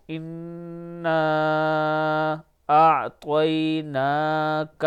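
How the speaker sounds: تلاوت قرآن; Quranic recitation. Shown as a demonstration. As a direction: recite the full surah carefully. Recites whole surah.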